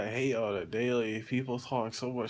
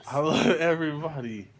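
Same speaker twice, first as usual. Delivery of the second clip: laughing; 5 dB louder than usual. Real, not acted. Laughing while saying it.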